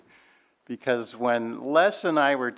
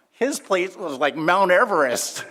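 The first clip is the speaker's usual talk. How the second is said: amused punchline; 8 semitones higher, 5 dB louder than usual. Real, not acted. Punchline, laughing.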